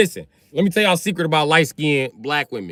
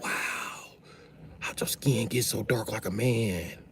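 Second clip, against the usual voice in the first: imitating a puzzled local; 3 semitones lower, 11 dB quieter, slower than usual. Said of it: "They're gonna be like".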